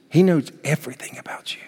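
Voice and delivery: breathy hushed whisper, no voice. Acted. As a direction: lean in and whisper it softly. Intimate whisper in sermon.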